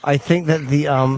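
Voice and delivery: teeth held still, slight laugh; talking through clenched teeth. Acted. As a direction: talk through locked teeth. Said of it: "only my lips move and my teeth are stationary".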